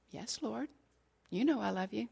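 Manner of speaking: hushed answer. Acted. Peter quietly answering Jesus by the fire, hushed and subdued. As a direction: answer almost under the breath, humbled.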